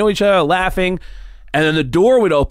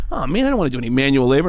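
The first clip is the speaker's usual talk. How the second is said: whiny complaint; much faster than usual. Retold or imitated. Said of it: "And I was like".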